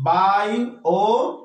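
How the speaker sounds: বায়োগ্রাফি drawn out slowly, syllable by syllable; slow syllable count. Shown as a demonstration. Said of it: "অনেকে দেখো".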